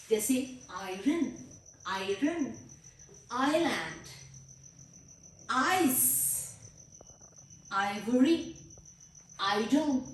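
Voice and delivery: आयरन and आइलैंड said slowly with the आई sound held; showing the ai sound. Shown as a demonstration. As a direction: lean on the opening आई sound. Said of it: "एक तो आई ही sound आ रही है".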